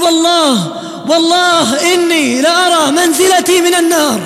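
a mild mock scream of terror; retold dying scream. Preacher voices the dying girl's scream about hellfire, mild mock scream. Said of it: "ترفع يدها وتصرخ".

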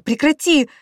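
very high, loud scream; wife screams at attacker; sobbing scream. A narrator's reading. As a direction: scream it through tears. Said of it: "кричала я сквозь рыдание".

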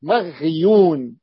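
مغيون stretched slowly, the ghayn held; مغيون drawn out slowly; drawn-out maghyun. Shown as a demonstration. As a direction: say مغيون slowly to mark the reading. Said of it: "الرواية الثانية".

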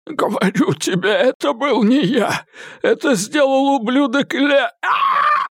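high, frantic thug voice, swearing; a beaten man blurting desperate denials; frightened high-pitched captive; Eddie, panicked. A narrator's reading.

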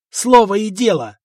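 "Слово и дело!" shouted loud and high; desperate shout. Acted.

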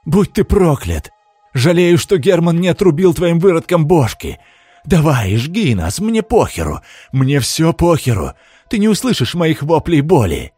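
high, loud contemptuous curse; contemptuous shout. A narrator's reading. Condemned man curses the lord, shouting with contempt. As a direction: spit your hatred at him. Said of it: "выкрикнул презрительно".

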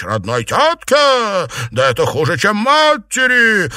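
high, loud menacing outrage; mother berating her daughter; outraged mother. A narrator's reading. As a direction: advance on the daughter, furious. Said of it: "возмутилась мать Чуньянь".

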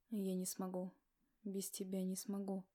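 low, hoarse moan of despair; groaning husband. A narrator's reading. Ignat despairing to his wife, low hoarse moan. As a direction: groan it out brokenly. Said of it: "простонал Игнат хриплым голосом".

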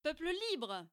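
calling out. Acted. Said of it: "s'écria-t-il".

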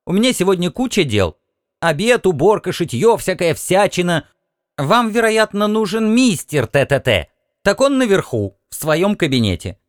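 high, fast, fussy housewife rattling off chores; busy housewife. Acted. Martian housewife brushes off the captain, high and hurried. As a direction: brush him off, too busy to talk.

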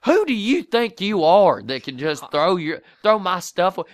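hammed-up angry mother; acted outrage. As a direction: play the furious mom for the setup. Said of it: "awesome acting".

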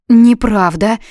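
narrated indignation, loud; indignant. A narrator's reading. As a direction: snap back, offended. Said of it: "возмутилась Юна".

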